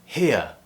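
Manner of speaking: "here" ending in ear glide, no R; "here" with i-uh glide, R silent; non-rhotic here. Shown as a demonstration. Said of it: "in a word like".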